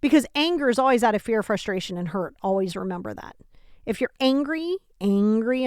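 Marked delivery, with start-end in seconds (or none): 3.8-5.6 angry said as if in quotes, with a rise; a rising, quoted angry; air quotes on angry. Shown as a demonstration. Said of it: "I'm over here in quotations".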